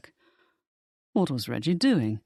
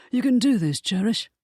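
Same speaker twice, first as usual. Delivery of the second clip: high, louder cheering on a frightened friend; encouraging; 8 semitones higher, 4 dB louder than usual. A narrator's reading. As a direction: lift her up with eager encouragement. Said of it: "gave her an encouraging nod".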